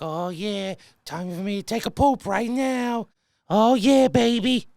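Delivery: put-on lazy dog crooning oh yeah baby; dog's talk voice. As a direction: voice the dog like a lounge lizard. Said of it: "that's his voice".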